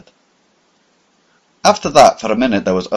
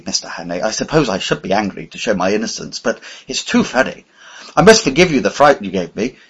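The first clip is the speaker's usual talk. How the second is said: amused; 4 semitones higher, 3 dB louder than usual. Acted. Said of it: "he began to laugh very pleasantly".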